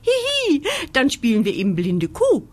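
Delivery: hohes Hihi, dann neckend weiter; kichernd. A narrator's reading. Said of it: "kichert Katinka". (kichernd, neckisch)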